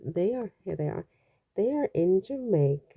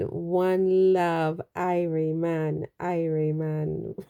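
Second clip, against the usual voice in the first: attempted Jamaican accent; slower than usual. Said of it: "I've lost my accent".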